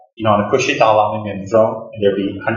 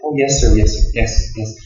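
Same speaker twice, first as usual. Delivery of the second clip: humble reply. Retold or imitated. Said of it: "how humble Dalai Lama is".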